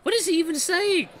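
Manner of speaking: high, loud exasperated disbelief; baffled. Real, not acted. Gamer reacting to Mickey's nonsense speech, baffled. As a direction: demand to know, laughing-stock incredulity.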